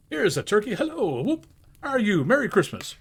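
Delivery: high, loud whooping welcome; jubilant greeting. Acted. Scrooge at the door greeting the poulterer's man. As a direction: hail the turkey like an old friend.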